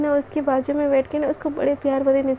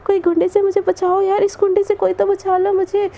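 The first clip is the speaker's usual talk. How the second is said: higher-pitched, half-hearted cry for rescue; mock yelling; 4 semitones higher than usual. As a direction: play at yelling for help, no real volume. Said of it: "Krishna ऐसे चिल्लाने लगते".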